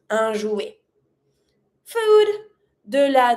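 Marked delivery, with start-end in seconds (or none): 0.1-0.8 jouet with ET said as eh; French "un jouet", silent T; E sound ending. Shown as a demonstration. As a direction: end "jouet" on the vowel. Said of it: "E T makes the E sound".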